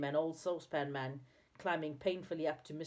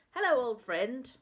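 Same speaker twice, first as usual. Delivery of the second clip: loud, high hello; excited greeting; 7 semitones higher, 7 dB louder than usual. A narrator's reading. Saucepan Man to his friend below, yelling excitedly. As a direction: call out joyfully to an old friend. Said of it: "in his excitement".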